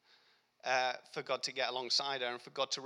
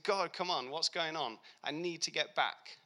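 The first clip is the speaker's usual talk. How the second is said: exasperated plea to God, pitched up; pleading with God, stuck and fed up; frustrated; 3 semitones higher than usual. Retold or imitated. Broken-down car, frustrated cry to God. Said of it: "And I was so frustrated".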